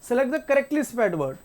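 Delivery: slow, soft, word-by-word reading of the question. Shown as a demonstration. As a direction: read each word out slowly for the class. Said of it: "reading the question slowly".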